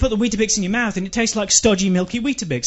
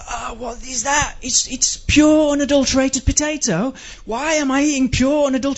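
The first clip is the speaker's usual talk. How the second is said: mock disgust; 4 semitones higher than usual. Mock disgust acting out eating.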